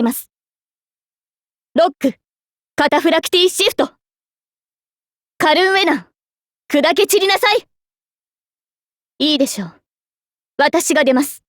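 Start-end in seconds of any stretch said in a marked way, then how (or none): 5.4-7.7 rousing finishing-move cry; battle attack call. Acted. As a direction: pitch rising into a commanding strike.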